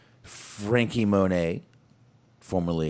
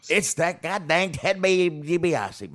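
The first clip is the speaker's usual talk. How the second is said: mock outrage; 11 semitones higher, slower than usual. Real, not acted. Echoing the villain reveal.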